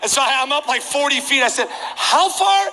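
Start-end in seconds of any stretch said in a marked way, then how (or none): 1.7-2.7 high-pitched call down the stands; calling from afar. Retold or imitated. Fan forty feet up asking the usher, high distant call.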